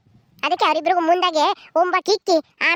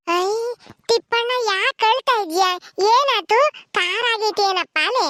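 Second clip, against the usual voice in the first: startled concern; 5 semitones higher, slower than usual. Acted. Sees Tippanna crying at meal.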